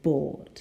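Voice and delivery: "bored" without an R sound; non-rhotic "bored", just a long vowel before D; received pronunciation. Shown as a demonstration. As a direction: say "bored" in RP, R silent. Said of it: "receive pronunciation".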